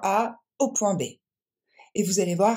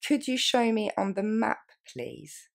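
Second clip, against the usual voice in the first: slower repeat; 5 semitones higher than usual. Shown as a demonstration. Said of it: "On la reprend plus lentement".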